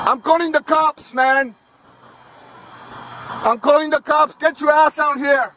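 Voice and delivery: calling out. Real, not acted. Yelling up at a pole worker.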